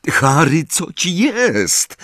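anxious, rising high on the question; frightened for his friend; shaky voice. A narrator's reading. Ron asking Harry what is wrong, anxious and shaken. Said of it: "powiedział roztrzęsionym głosem".

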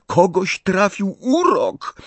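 high, drawn-out yell. A narrator's reading. Harry repeats the news for Hagrid, yelling. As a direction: shout it slowly to be heard. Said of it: "wrzasnął Harry".

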